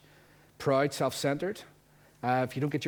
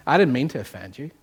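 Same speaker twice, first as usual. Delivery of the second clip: emphatic; 8 dB louder than usual. Real, not acted. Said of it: "But that's the truth".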